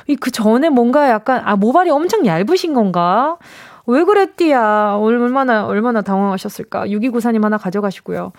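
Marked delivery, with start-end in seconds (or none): 3.9-5.0 Chungcheong dialect. Real, not acted. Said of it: "갑자기 충청도 말을 왜 그랬디야?".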